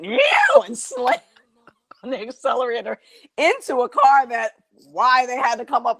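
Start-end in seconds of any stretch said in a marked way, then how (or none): 0.0-0.6 high squeaky panic yelp; comic high-pitched squeak; panicked squeal. Retold or imitated. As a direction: squeal like a scared cat. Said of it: "put my car in reverse and went".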